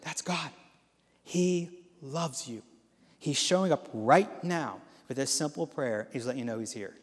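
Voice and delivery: soft, slow and tender; reassuring. Acted. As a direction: speak it gently like a blessing. Reassuring someone after prayer.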